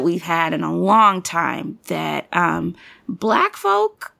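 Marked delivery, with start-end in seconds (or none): 3.1-4.1 high, emphatic proclamation; passionate declaration. Real, not acted. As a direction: proclaim it with pride.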